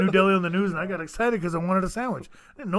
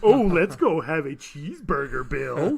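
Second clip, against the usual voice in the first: mock American; 3 semitones lower, slower than usual. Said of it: "they ever be like".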